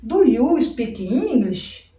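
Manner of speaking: "Do you speak English?" said very slowly, stressing "Do"; slow model sentence. Shown as a demonstration. Teacher modelling the question for students, very slow. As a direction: spell out each word slowly for the class. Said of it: "aqui seria um do".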